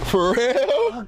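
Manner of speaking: surprised. Real, not acted. Shocked at graduation news.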